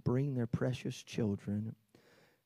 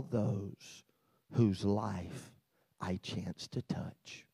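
put-on gentle child's pledge; slower than usual. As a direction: read it gently, letting the last words slow and fade. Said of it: "here's what they would say to you".

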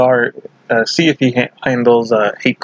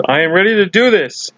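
higher, swooping psyched-up voice; mock pumped-up declaration; 6 semitones higher than usual. Recapper imitating Michael before the roof jump, pumped up. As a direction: declare it like a hero psyching himself up. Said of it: "Michael says".

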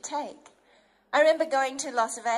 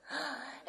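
quick panicked intake of breath; acted fright gasp; sharp startled gasp; 12 dB quieter than usual. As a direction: gasp in alarm. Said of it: "Instead of going".

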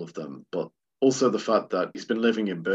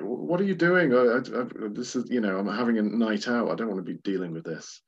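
stammering, higher-pitched mock complaint; mock indignant protest; 4 semitones higher, 3 dB louder than usual. Film reviewer voicing man interrupted at Indian restaurant, mock indignant. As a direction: imitate a flustered man put out by an interruption.

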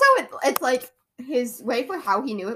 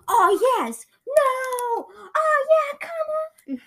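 much higher, louder cheering shouts; sports fan yelling; 7 dB louder, slower than usual. Retold or imitated. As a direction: yell at the TV game. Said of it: "'Cause they're, like, really loud".

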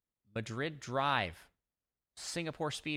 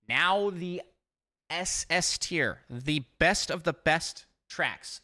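loud, slow build-up to the top tier; hyped announcement; 5 semitones higher, 7 dB louder, slower than usual. Acted. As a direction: announce it like a big reveal.

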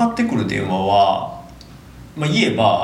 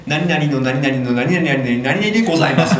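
customer service voice; 3 semitones higher than usual. Retold or imitated. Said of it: "みたいな感じで".

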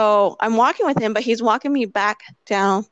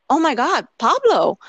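put-on a rush of excitement at seeing an old friend; emotional recognition; 5 semitones higher, 3 dB louder than usual. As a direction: say his name like you can't believe it's him. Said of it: "got so emotional".

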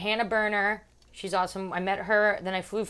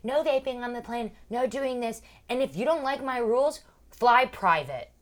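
imitated flight attendant announcement; 5 semitones higher than usual. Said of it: "the talk thing, and she's like".

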